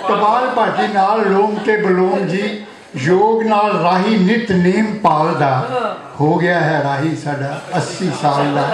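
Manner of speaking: rhythmic verse, line by line; poetry recitation. Acted. Poet honouring a friend turning eighty, rhythmic recitation. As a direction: recite each line to the room, pausing between them. Recites birthday poem to audience.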